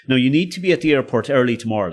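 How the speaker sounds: mock stern warning, a bit quick; lightly stern official telling a passenger off. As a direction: play the strict airline man, firm and brisk. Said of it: "like, really sternly".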